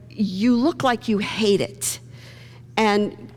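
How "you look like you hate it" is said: Guinan observing. Retold or imitated. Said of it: "Guinan says".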